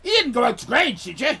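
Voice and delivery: high loud incredulous what; shocked disbelief. Retold or imitated. Local warning Australian visitors, shocked. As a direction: gasp in horror that they went. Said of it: "And they said".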